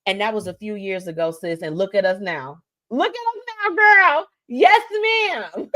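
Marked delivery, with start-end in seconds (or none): 2.9-5.7 much higher, gleeful and proud; excited high repeat. Acted. To her friend Michelle, a proud excited squeal. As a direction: sing it out, thrilled.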